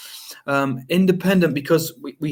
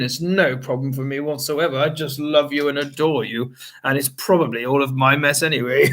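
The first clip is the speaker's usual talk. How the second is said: sweet and loving. Retold or imitated. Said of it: "Kissy, kissy".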